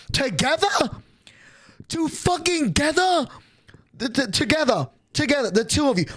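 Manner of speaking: high, stretched disbelief on together; incredulous repeat. Real, not acted. Vlogger repeating the mother's word, high and incredulous.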